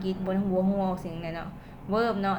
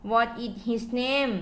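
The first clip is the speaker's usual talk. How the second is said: slow model sentence; 3 semitones higher, much slower than usual. Shown as a demonstration. Teacher to students giving an example, very slow. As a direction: read it out slowly for learners to copy. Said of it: "ตัวอย่าง".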